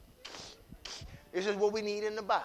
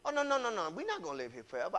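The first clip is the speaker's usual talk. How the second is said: 1 laughing it off; 5 semitones lower, 9 dB quieter, faster than usual. Shown as a demonstration. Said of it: "You could just laugh and say".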